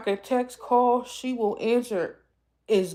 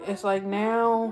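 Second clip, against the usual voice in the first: slow, tearful catch in the throat; fighting back tears; real grief breaking through; choked up; 2 semitones higher, 3 dB louder, slower than usual. Real, not acted. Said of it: "I always get emotional talking about her".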